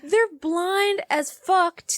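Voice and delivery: worked-up ranting at people; mock furious. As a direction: rant like you're fed up with everyone. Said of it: "got so viscerally angry right now".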